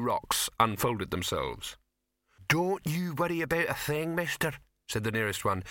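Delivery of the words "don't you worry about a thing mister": higher, jovial big troll; a cheerful rock creature; friendly troll. A narrator's reading. Troll speaks.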